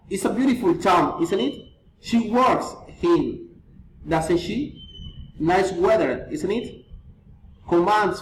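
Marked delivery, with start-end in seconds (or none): 0.1-6.8 statements with questioning tags; falling or rising tag intonation. Shown as a demonstration. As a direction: lift "isn't it" after the statement. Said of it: "feeling or reason intonation".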